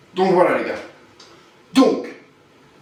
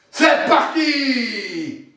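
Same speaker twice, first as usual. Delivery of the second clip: long slow rallying cry; drawn-out shout; much slower than usual. Acted. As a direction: stretch it out as a shout.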